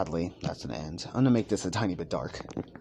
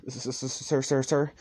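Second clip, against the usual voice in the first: higher stammering, tripping over every word; nervous stutter; 5 semitones higher than usual. Acted. Nervous fan stutters to All Might, tripping over words. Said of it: "as he's really nervous".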